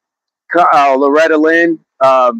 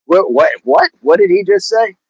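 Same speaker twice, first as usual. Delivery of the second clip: higher-pitched baffled reaction; imitated bafflement; 4 semitones higher than usual. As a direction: act out puzzled listeners, voice rising on the repeats. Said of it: "People are like".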